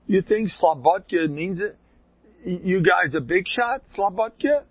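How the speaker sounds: high-pitched acted scolding; retold dressing-down. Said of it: "He ranked out the whole shita".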